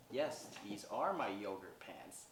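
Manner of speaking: slow, drawn-out retold answer; deliberate confirmation. Noelle proudly confirming her yogurt pants, deliberate. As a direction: spell out YOGURT slowly and earnestly. Mishears yoga as yogurt, insists.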